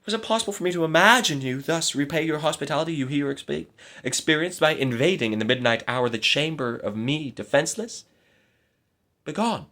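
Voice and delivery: high, indignant scolding; indignant rebuke. A narrator's reading. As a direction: drive the false knight away. Maiden rebukes intruding knight.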